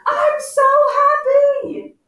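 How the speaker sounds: loud, high, drawn-out happy exclamation. Shown as a demonstration. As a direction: exclaim it slowly and loudly for the class. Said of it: "makes whatever we're reading louder".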